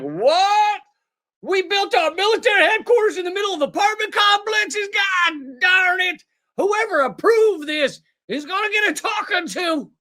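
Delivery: high, shouted mock outrage; sarcastic impression of a blustering Israeli officer; mock Israeli official. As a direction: play a flustered official shouting in fake shock. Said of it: "That's my best Israeli accent".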